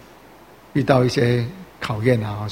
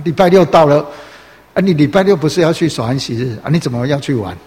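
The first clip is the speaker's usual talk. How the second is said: classmate calling out; 2 semitones higher, 5 dB louder than usual. Retold or imitated. Classmate reminding a believer about Sabbath, loud teasing call.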